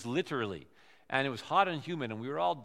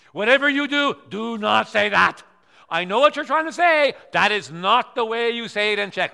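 loud, higher insistent warning; urgent warning; 4 semitones higher, 11 dB louder than usual. Retold or imitated. Friend warning the visitor off a bad phrase, loud and urgent. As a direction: warn him off at once, loud.

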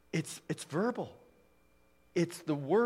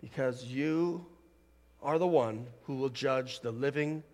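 prayer; 2 semitones lower, 4 dB quieter than usual. Real, not acted. Preacher leading the church in prayer, hushed and reverent. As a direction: speak softly and reverently to God.

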